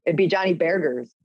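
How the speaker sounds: Boston-style "Burgers" with dropped r; Boston accent. Retold or imitated. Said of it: "It sounds like Tyler saying burgers".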